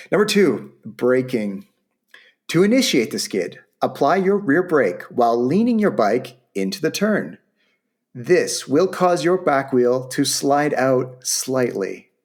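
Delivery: upbeat sales-pitch read; infomercial voice. Acted. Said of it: "I'm starting to sound like an infomercial".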